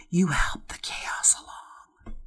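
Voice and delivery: breathy stage whisper; whispering in ear. Acted. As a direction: whisper it right into her ear. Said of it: "I'm gonna whisper in this, in your ear".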